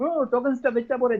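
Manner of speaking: high-pitched irritated grumble; irritated complaint. Acted. First person in the queue complaining about the counter, irritated. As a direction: put on a worked-up, impatient customer. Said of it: "going to get irritated".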